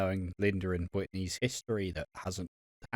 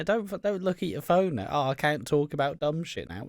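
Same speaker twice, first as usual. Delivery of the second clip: mock scolding; 5 semitones higher than usual. Mock scolding co-host off phone.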